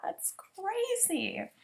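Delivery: slow, amazed whisper. Real, not acted. To her viewers after the doctor's words, an amazed whisper. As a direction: breathe it out in awe. Reacting to the quote.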